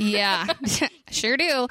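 laughing reply. Retold or imitated. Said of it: "she's like".

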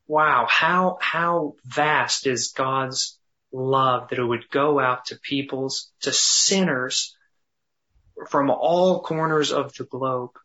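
awed musing. Shown as a demonstration. Pastor marveling in meditation, slow and awed. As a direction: wonder aloud at how vast it is. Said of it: "took the time to emphasize".

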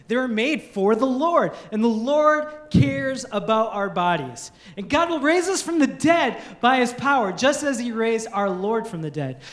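measured Bible reading to the congregation; scripture reading. Acted. Pastor reading scripture to church, measured and earnest. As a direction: read the passage with weight.

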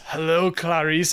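slow, creepy Hello, Clarice; drawn-out menacing greeting; lightly voiced movie villain; creepy Hannibal quote. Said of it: "he goes".

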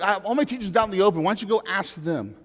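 quick, pushy paraphrase of Jesus; mock-defiant Jesus, lightly voiced; challenging retort. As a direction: toss the question back at him. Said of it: "He says, like".

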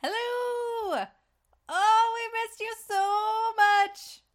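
high, sing-song gushing greeting; booming sing song welcome. Acted. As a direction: gush it out like a game show host. Over-the-top podcast welcome.

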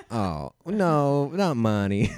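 high, loud mock-shocked guide; mock French guide. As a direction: gasp it out like a prissy tour guide. Imitating French guide's reaction.

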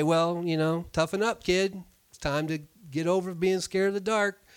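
lightly hammed-up stern father; mock tough parent. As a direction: pretend to tell her to toughen up. Mock tough-love parent to child.

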